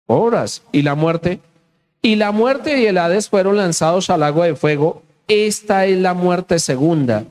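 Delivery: scripture reading. Acted. Preacher reading the final judgment to the church, declaimed scripture. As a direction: read it out solemnly to a congregation. Reads scripture aloud to congregation.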